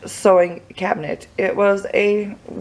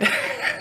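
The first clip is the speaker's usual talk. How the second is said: nervous laugh; 6 dB quieter than usual. Real, not acted. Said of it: "I think I'm nervous".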